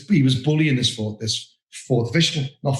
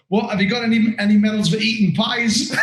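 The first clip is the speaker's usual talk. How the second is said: laughing mock jibe; 8 semitones higher than usual. Official's mocking comeback.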